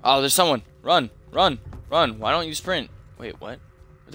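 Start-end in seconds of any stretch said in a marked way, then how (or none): 0.0-2.9 being chased. Real, not acted. Enemy appears, urging to run.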